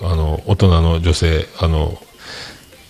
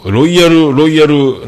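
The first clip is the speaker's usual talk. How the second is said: excited exclamation; 9 semitones higher, 6 dB louder, slower than usual. Real, not acted. Exaggerating her royal status.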